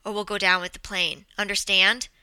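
firm, pressing warning; urgent warning. Acted. Co-pilot warning a passenger they may go down, urgent. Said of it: "He hesitated and then finished his sentence".

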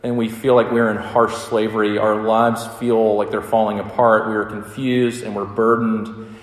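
earnest, hushed pastoral prayer. Acted. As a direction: pray over the congregation, humbly. Opening prayer before sermon.

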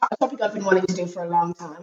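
hoarse from a cold, croaky. Real, not acted. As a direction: talk through a croaky, sore throat. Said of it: "I'm sorry about my croaky voice".

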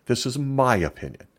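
weighty emphatic disclaimer; heavy emphasis. Shown as a demonstration. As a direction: stress the whole phrase "This is my opinion" hard and high. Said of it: "Did I emphasize that heavily enough?".

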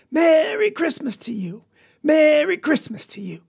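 high joyful holler; yelling. A narrator's reading. Papa waving chickens at his family, high yell. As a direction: shout the greeting, way up high. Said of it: "waving them two chickens and yelling".

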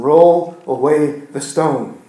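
slow, weighted phrasing; reading bulletin title, slow; slow emphasis. Real, not acted. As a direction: lean on each word slowly. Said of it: "what it says on the front of the bulletin".

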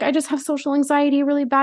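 high mock-helpless voice; mock whiny girl. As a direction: mimic the girl playing the victim. Mimicking drunk girl.

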